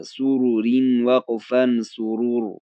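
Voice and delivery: slow "سرورین" with light r, then "سرور" stopped on a heavy r; measured drill, "سرور" closing on a thick r; thin then full r. Shown as a demonstration.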